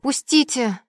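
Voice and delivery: high, loud struggling shout; a mild cry to let go. Acted. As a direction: yell while being dragged away. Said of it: "закричала я".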